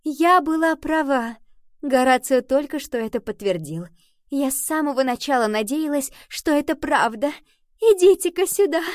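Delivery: high, loud delighted queen; exclaiming. A narrator's reading. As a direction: exclaim it with joyful excitement. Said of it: "она воскликнула".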